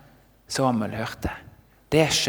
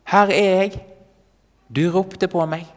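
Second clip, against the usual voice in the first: put-on higher, louder young boy's reporting voice; keen, pitched-up answer to the priest; eager boy; 6 semitones higher, 5 dB louder than usual.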